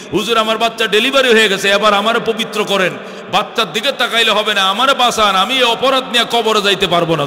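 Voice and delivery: urgent preacher-voiced plea; pleading. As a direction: beg insistently, acting out the penitent woman. Woman begs to be purified.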